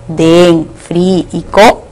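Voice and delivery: "den, fri y co" as separate syllables; silabeado. Shown as a demonstration. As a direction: list "den", "fri", "co" one by one, with pauses. Teacher separates syllables of dentífrico. ("den, fri y co" sílaba por sílaba)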